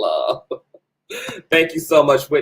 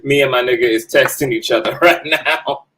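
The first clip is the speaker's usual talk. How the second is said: laughing; 3 dB louder than usual. Real, not acted. Laughing while telling about texting.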